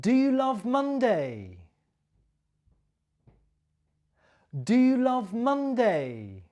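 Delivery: teacher models the question, stressing "you". Shown as a demonstration. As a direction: hit "you" high in "Do you love Monday?". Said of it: "my stress and my intonation".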